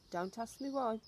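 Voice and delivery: snapping grandmother. Acted. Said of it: "she snapped".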